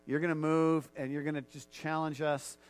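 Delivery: earnest spoken prayer; leading the church in heartfelt prayer. Acted. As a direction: pray aloud before the congregation. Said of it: "would you just join me in prayer".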